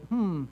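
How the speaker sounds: drawn-out "hmm" of self-questioning; pondering hum. Acted. Preacher acting out analyzing his own anger, pondering hum. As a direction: hum as if weighing it up. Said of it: "if you start to analyze and you go".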